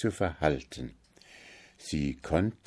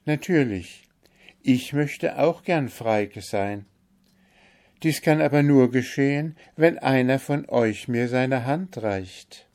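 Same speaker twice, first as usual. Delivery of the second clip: higher, sorrowful voice of the bewitched owl; lamenting owl princess; 7 semitones higher, 3 dB louder than usual. A narrator's reading. Owl princess tells the Kalif her sorrow, lamenting, pitched higher. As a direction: mourn your lonely life among ruins.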